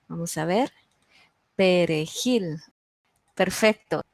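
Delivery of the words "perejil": perejil with its last syllable jil stressed; measured perejil, landing on jil; stressed-syllable demo. Shown as a demonstration. Teacher confirming the answer for students, perejil with stress on jil. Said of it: "¿Cuál es la sílaba tónica?".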